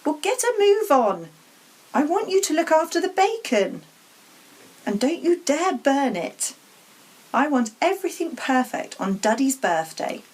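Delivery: shrill nagging aunt; bossy aunt. Acted. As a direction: boss him about the bacon. Aunt bossing Harry.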